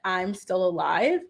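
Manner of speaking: slow, drawn-out quote with a touch of sadness; imitating someone sadly hanging on. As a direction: quote it slowly, without any joy. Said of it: "something about it felt very sad".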